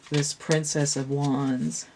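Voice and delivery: slow, through a yawn. Real, not acted. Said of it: "I start yawning and I can't stop".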